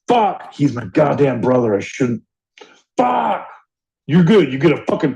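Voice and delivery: retold self-reproach. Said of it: "I'm like".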